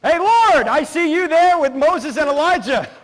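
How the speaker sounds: hammed-up loud, high hail; acted eager call. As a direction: call out like an overexcited disciple. Voicing excitable apostle Peter.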